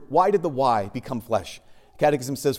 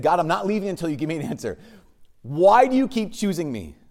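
higher, insistent plea to God; imitated anguished demand; torn-apart pleading; 4 semitones higher, 4 dB louder than usual. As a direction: retell a desperate prayer, pressing for an answer. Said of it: "Her heart was just really torn apart".

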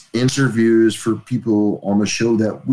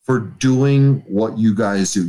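sincere thanks; slower than usual. Real, not acted. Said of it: "I'm looking at the camera".

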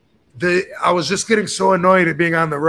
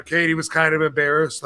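normal talking voice

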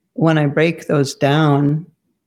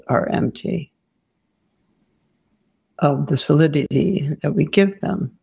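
guided meditation. Real, not acted. Teacher guiding students to let go of form, guided meditation. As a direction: lead them gently inward, leaving long silences.

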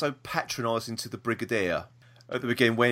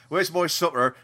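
lightly put-on Cockney accent, a little higher; mock Cockney; 4 semitones higher than usual. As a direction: imitate a Cockney character, half laughing. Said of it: "that well-known Cockney".

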